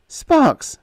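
high, eager and intense; breathless hope in a high voice. A narrator's reading. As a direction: press him urgently for the truth. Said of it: "Her voice was intense, eager".

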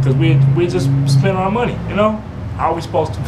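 exasperated and loud; excited. Retold or imitated. Pleading disbelief over spent money.

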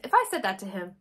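holding back a hiccup; words caught on a swallowed hiccup; suppressing hiccups. Real, not acted. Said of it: "sorry, I'm trying not to hiccup".

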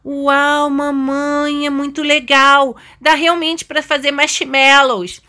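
put-on high, pleased kid voice; delighted little daughter. Daughter admiring the camping area.

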